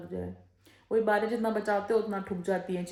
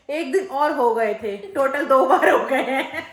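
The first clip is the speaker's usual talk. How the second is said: mimicking the maid; 3 semitones higher, 10 dB louder, slower than usual. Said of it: "तो कहती है".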